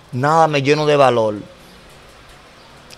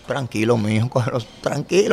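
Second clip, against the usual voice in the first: soothing; 4 semitones lower, 7 dB quieter than usual. Retold or imitated. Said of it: "siento que me pasa su mano".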